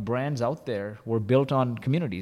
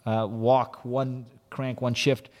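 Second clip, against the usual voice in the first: coach yelling; 4 dB louder, slower than usual. Retold or imitated. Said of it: "she yells out".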